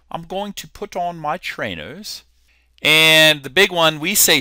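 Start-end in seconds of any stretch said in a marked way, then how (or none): 0.1-2.2 softer put-on British accent; amateur British English, a little quiet. Shown as a demonstration. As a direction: imitate a British speaker. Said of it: "give you my British accent".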